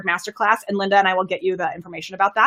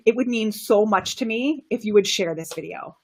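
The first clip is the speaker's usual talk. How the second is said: softer, sincere, intimate ask; connecting plea; 5 dB quieter than usual. Shown as a demonstration. Coach demos connecting with viewers, softer and sincere. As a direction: lean in close and ask softly. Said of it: "my voice is gonna be lower".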